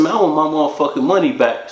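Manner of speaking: fast, insistent demand for the money; firm demand. Retold or imitated. Narrator repeats his demand to Mike, fast and insistent. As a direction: lay it down flat, no backing off.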